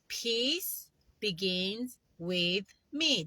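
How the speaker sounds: slow, soft affirmation; calm chanted affirmation; slow mantra. Shown as a demonstration. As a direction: say it slowly like a mantra. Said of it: "I like doing this".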